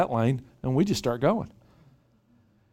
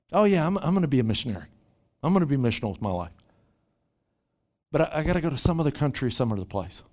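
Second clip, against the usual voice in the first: mock eager believer; faster than usual. Mocking imagined believer.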